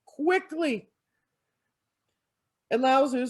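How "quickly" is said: high, loud, frightened monster shrieks; a beast recoiling in terror from red; the Nian screams in fear at red underwear; panicked screaming monster. Acted. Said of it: "the Nian started screaming".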